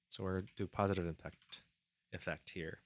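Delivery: talking through burps; burping. Real, not acted. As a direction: burp between the words. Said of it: "Excuse me, I'm burping a lot".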